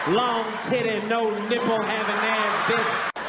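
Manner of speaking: quoting a comedian. Retold or imitated. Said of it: "quote lines from it non-stop".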